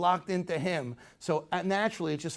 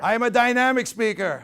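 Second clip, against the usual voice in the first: strong declaration; 6 semitones higher, 7 dB louder than usual. Shown as a demonstration. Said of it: "Everybody say".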